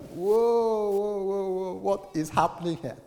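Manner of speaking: high, taken-aback whoa; a baffled man backing off; startled husband. Retold or imitated. Husband caught off guard by his wife's outburst, high startled. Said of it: "And the husband is like".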